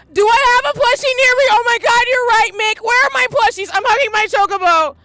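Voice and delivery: in your feels, voice pushed up; emotional. Real, not acted. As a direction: fret aloud, overcome with feeling. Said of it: "I am so in my feels".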